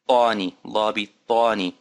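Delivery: bani with the alif stretched, heavy a as in father; Arabic teacher modelling bani; Arabic long a. Shown as a demonstration. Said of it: "Notice the elongation and notice the a sound".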